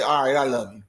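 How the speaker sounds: All right, I love you tossed off without feeling; dismissive, going through the motions; careless, obligatory I love you. Retold or imitated. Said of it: "didn't even say it with no feeling".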